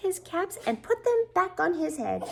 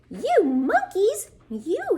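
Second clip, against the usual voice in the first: tag; 5 semitones higher, 3 dB louder, slower than usual. Acted. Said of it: "shaking a finger at them".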